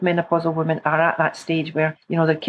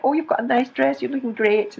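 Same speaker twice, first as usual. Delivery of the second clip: kind compliments; 5 semitones higher than usual. Shown as a demonstration. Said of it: "talking like this".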